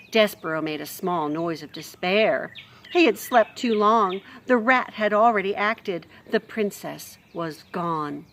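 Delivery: expressive storybook reading; lively read-aloud voice; story narration. A narrator's reading. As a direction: read it like a bedtime chapter.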